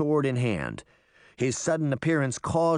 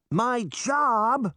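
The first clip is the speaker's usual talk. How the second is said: high-pitched shouted retort; 12 semitones higher than usual. A narrator's reading. Boy answering from the road to hidden Sabrina, high shout. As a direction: call it back indignantly, voice jumping up. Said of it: "he shouted".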